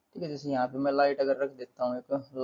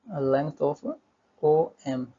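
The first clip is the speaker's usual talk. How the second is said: dictating while writing; much slower than usual. Real, not acted. Saying words while writing them out.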